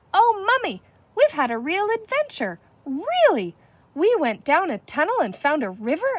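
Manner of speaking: put-on high, loud, breathless child's excitement; excited shouting. A narrator's reading. Patsy bursting in to tell Mummy the adventure, shouting excitedly. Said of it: "shouting at the top of her voice".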